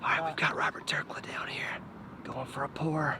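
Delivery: very quiet, hushed, whispered golf announcer voice. Calling a friend's par putt as a joke: hushed golf announcer whisper. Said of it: "Except I should be whispering".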